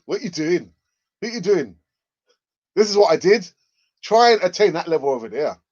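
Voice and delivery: mock telling-off in a badly faked Scottish voice; George Graham. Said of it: "that wasn't a Scottish accent".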